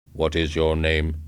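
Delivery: cold, even robot pitch; robot salesman. A narrator's reading.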